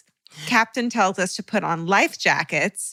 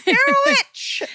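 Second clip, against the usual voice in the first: hammed-up high scream of accusation; 4 dB louder than usual. Accusing Keith Richards of sorcery, mock scream. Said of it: "screamed at the top of my lungs".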